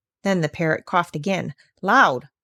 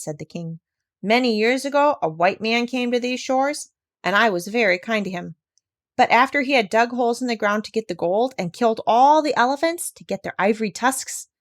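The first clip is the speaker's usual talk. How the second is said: lightly voiced proud African king, raised pitch on the grievance; a king scolding a foreigner, aggrieved; a hint of an offended king; stern king; 3 semitones higher than usual. King's speech to doctor.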